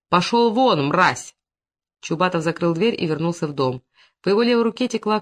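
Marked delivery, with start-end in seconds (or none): 0.1-1.4 angry shout. Acted. Throwing out the enemy.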